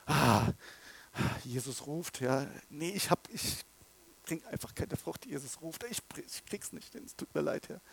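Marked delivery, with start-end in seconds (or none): 2.7-7.8 soft, breathless mock confession; whispered confession. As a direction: whisper it like a guilty believer. Voices a despairing believer's prayer.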